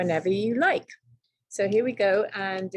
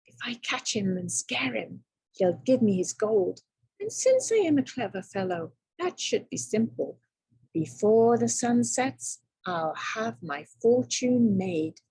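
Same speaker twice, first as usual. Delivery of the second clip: excited scheming. Acted. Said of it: "thought Tom".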